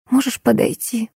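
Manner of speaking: a soft, breathy plea from a hospital bed; barely voiced, weak request; whispered plea. A narrator's reading. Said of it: "прошептала больная".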